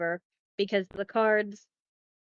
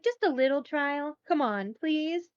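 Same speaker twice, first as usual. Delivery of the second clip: higher, pleading little king voice; higher timid king begging politely; 4 semitones higher than usual. Retold or imitated. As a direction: coax her like a timid husband. King wheedles the queen.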